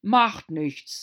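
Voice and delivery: king glad the cook is gone; relieved. A narrator's reading. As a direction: breathe it out with relief. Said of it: "im Ton großer Erleichterung".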